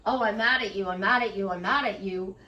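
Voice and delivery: half-hearted mock fury, spoken right out; mock mad rant out loud. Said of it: "she's not saying out loud".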